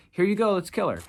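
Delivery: high, loud jeering quote; mocking Pharisees. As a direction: sneer like the accusers. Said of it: "and being like".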